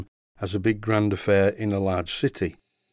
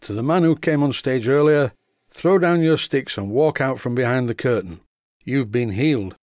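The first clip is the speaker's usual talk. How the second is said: hammed-up faith healer call; loud theatrical voice; 2 semitones higher than usual. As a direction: proclaim it to the hall like a showman. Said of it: "So he said once again".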